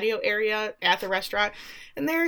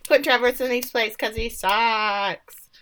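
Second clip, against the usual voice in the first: put-on girls cheering; 2 semitones higher, slower than usual. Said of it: "all the girls are like".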